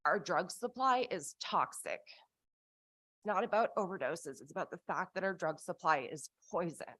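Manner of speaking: slow, emotion welling up in the voice; getting emotional. Real, not acted. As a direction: push through real emotion, slowly. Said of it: "I'm gonna get really emotional here".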